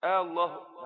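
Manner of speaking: آه الله with a long questioning آه; questioning allah. Shown as a demonstration. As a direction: say it as if still asking. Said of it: "ولسه بيسأل". (آه الله بنبرة سؤال)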